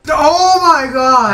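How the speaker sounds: shouting. Real, not acted. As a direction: yell it out, stretched. Reacting to rent joke.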